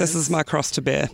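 low hoarse voice; lost voice. Real, not acted. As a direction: croak it out. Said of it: "pretty much lost her voice".

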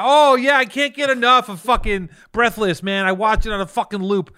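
high, loud mock enthusiasm; sarcastic gushing. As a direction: gush with fake love. Sarcastic gushing about Breathless.

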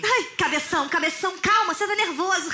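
mock-worried soap teen; Malhação teen-soap character. Teen calms agitated Cabeção, Malhação style. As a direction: soothe a pal in hammed-up teen slang. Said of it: "Malhação".

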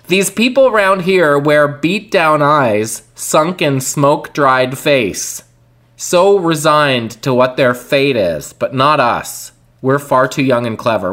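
slow, deliberate verse recital; measured spoken song words; reading lyrics aloud. Acted.

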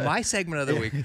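sexy voice. Pretend. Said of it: "This is my sexy voice".

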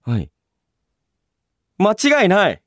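ordinary talk, nothing marked

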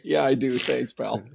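laughing through a wry thanks; laughing reply. Retold or imitated. Player laughing back at the teasing trainer. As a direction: chuckle the thanks out. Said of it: "So I was like".

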